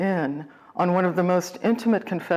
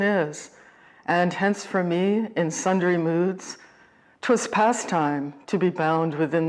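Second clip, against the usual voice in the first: measured sonnet reading, with pauses between phrases; poem recitation. Acted. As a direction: recite it as verse, lingering on the short phrases.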